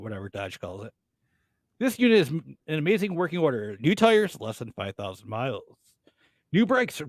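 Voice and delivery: reading it like a car ad announcer. Acted. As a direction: sell it like a used-car spot. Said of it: "You sound like an announcer".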